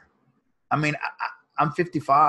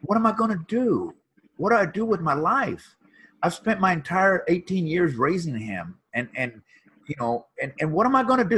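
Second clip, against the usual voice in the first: retold bawling; 5 semitones higher, 3 dB louder than usual. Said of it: "just bawling".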